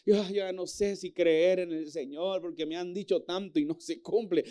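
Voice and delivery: lamenting church member. Retold or imitated. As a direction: sigh it out like a worn-down believer.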